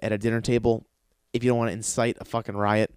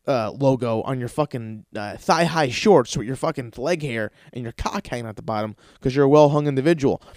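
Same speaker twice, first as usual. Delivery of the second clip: mock manager. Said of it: "you're like".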